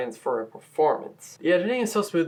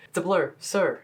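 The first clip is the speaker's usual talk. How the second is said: slightly raised, mildly nervous imitation; imitating nervousness; 4 semitones higher than usual. Imitating Hamilton talking to Burr, mildly nervous. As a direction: lightly mimic someone nervous. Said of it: "he sounds very nervous".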